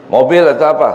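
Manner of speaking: eager offer. Acted. Devil offers a year-end bonus.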